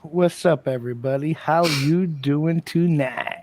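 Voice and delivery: ooze it out slow and smooth; Quagmire voice. Pretend. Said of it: "let everybody hear that silky, smooth, sexy voice".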